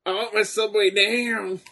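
high mock wrestler yell; wrestler promo parody. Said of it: "how Rick Steiner talk".

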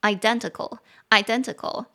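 identical, second syllable DEN stressed. Shown as a demonstration. Teacher modelling identical with stress on DEN. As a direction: land the weight on DEN in identical. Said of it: "重音节在第二音节".

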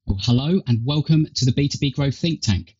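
tinny earbud mic sound; thin, tinny recording through earpods. Real, not acted. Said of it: "I guess, a tinny tone".

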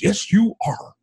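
high-pitched, delighted confirmation; giddy excitement. Retold or imitated. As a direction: imitate a super excited doctor. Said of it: "he was super excited. Like, he was giddy".

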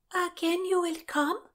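high, small, wistful question; saddened. A narrator's reading. Brigitte asks Constance to return, saddened high voice. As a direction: ask it sadly, pitched far up. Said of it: "asked a saddened Brigitte".

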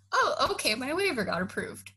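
flat, offhand "Oh, okay, my waiver got approved" with a high start on Oh; deadpan echo of the news, a beat before it sinks in; casual mock acceptance. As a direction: shrug it off as if nothing happened. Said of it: "he said it so casually that I literally was like".

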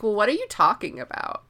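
mildly puzzled mock question; baffled retold question. Edric keeps being like this to Scytale, mildly baffled. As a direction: ask it as if not following.

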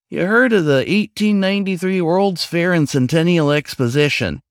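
eager raccoon. Acted. Raccoon telling the newcomer about the fair, eager and lightly voiced. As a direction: launch into the old lecture, eager to share.

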